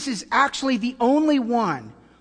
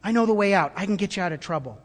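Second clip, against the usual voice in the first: crisis rescuer; 4 dB louder than usual. Pretend. Rescuer calling trapped people out of a crisis, urgent. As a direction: lead people out of danger. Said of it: "someone might say".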